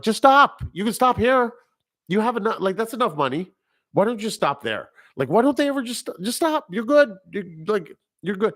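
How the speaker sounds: high-pitched, exasperated plea to stop; yelling at the screen. Retold or imitated. Pleading with a drug dealer on screen, high exasperated yelp. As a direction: squeak it up like begging a movie character to quit. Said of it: "don't you ever yell at the screen".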